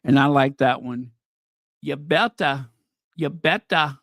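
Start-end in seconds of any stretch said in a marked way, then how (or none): 1.8-4.0 a weak, half-hearted Scottish accent on "You better"; bad Scottish accent. Shown as a demonstration. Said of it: "I do the worst Scottish accent".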